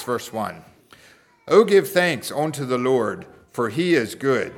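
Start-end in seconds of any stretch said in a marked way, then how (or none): 1.5-4.5 measured responsive psalm reading; scripture reading. Acted. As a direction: read the verse out for a congregation. Reads the psalm aloud.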